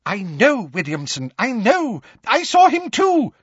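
high, flustered babble; gibbering. A narrator's reading. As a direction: gibber it in agitation, rising to a cry. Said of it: "gibbered Fudge".

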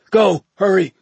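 strained, high, loud rasp; urgent rasping cry under strain. A narrator's reading. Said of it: "she rasped".

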